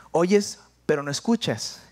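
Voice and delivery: slow, weighed "Oyes, pero no escuchas"; mother's scolding. Retold or imitated. Preacher quoting his mother's slow scolding. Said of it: "volviendo al regaño de mi madre".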